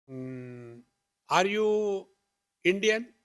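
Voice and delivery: lightly voiced nosy stranger, probing; questioning stranger.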